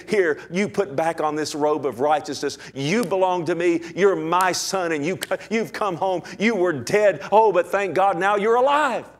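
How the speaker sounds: building from glad welcome to a loud, rejoicing cry; joyful father. Retold or imitated. Father rejoicing over his son come home, building joy. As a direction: swell into jubilant praise as the father.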